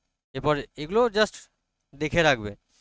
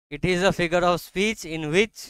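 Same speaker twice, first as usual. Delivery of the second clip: very slow, measured dictation; much slower than usual. Real, not acted. Teacher dictates a definition to students, slow and deliberate. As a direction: spell it out phrase by phrase for note-takers.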